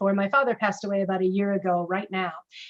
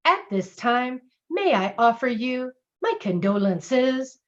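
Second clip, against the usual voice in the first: imitating a receptionist's sing-song script, slow; mock robotic jingle reading of a condolence; scripted jingle delivery; slower than usual. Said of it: "exactly how she said it".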